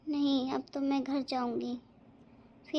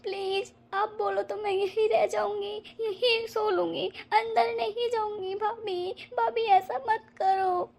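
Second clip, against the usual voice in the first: pleading; 4 semitones higher than usual. Acted. Begging bhabhi not to throw her out.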